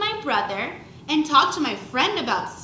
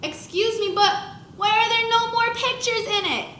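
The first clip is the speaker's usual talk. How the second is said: much higher, indignant question; shocked there are no pictures; dismayed surprise; 9 semitones higher than usual. A narrator's reading. Kid dismayed by book.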